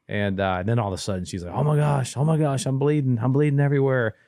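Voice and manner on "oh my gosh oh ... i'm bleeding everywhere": high, loud alarmed retelling of her panic; frightened mother on the phone, voiced higher and louder; panicked cry. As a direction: relay her frantic call, pitched up and louder.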